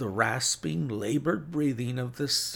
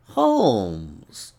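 much louder, drawn-out falling call; insistent call; 10 dB louder than usual. A narrator's reading. Visitor awakening the sick man, loud insistent call. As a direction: call as if waking a sleeper. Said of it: "insistent tone of one who awakens a sleeper".

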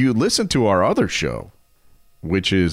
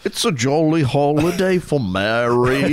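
Dick Van Dyke Cockney, higher and singsong; Cockney Bert accent; 6 semitones higher than usual. Pretend. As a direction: sing it out like Bert the chimney sweep. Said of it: "that's pretty good".

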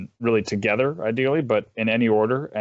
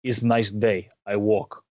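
imitating a friend's accidental Russian accent; slower than usual. Friend tells the group his travel plan, in Russian accent. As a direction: slip into a mock full-blown Russian accent. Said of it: "accidentally busts into a full Russian accent".

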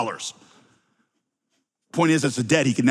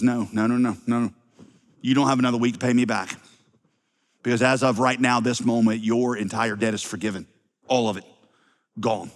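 tender forgiveness; 4 semitones lower than usual. Retold or imitated. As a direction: gently release him from the debt, understated. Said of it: "a tear in his eye and a quiver in his voice".

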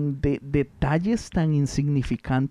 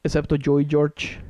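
whispered admission. Real, not acted. Admits he is the oldest.

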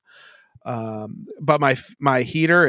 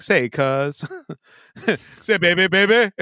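mock Russian come-on, rising higher; mock Russian accent; 3 semitones higher than usual. Host showing friends what Russians sound like, mock Russian accent. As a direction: do a silly Russian pick-up voice. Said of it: "That's what Russians sound like".

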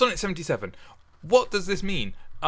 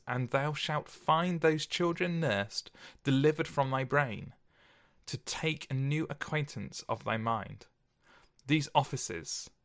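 slow, measured poetry recitation; poem reading; slower than usual. Acted. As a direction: read the sonnet with gravity. Reads sonnet aloud.

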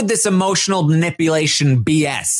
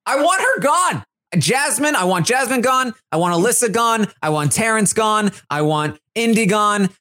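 mock rant. Michael ranting about who he wants gone, defiant. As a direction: list them off with spite. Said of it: "the rant".

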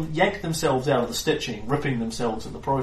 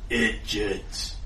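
troll voice; 3 semitones lower, 3 dB quieter than usual. Acted. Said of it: "laughs very confidently and then speaks in".

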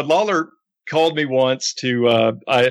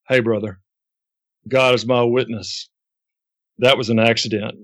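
retold solemn avowal, slightly slowed; mild, grave sincerity with weighty pauses; dead serious; 2 semitones lower than usual. Wrestler solemnly swears his innocence to his manager, gravely earnest. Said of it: "he got so serious on me".

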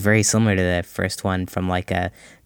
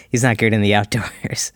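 laughing. Real, not acted. Joking about Michael's weakness.

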